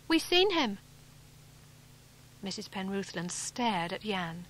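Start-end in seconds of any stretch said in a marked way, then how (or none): 0.1-0.8 a hint of a blunt country lad, higher; simple boy blurting it out; lightly voiced local boy. A narrator's reading. Jan repeats the news.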